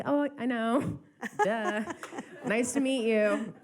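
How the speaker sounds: mock fan gush. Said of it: "I was like".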